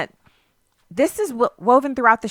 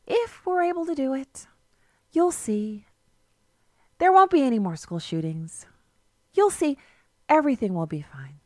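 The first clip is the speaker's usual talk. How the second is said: mocking starry-eyed idealist; 3 dB quieter than usual. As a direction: ham up a naive utopian preacher. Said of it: "Yes, that's how they talk".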